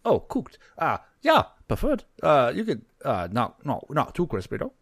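high-voiced gnome, hesitant over the order; gnome customer. Gnome ordering food at the tavern, high voice.

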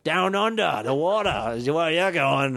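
mock Australian pirate. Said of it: "Australian pirates".

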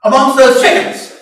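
acted astonishment; baffled old eagle. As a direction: exclaim in disbelief at the sight below. Old eagle puzzled from above.

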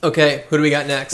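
talking through a mouthful; words round a bite of food; mouth full. Real, not acted. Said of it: "speaking with your mouthful there".

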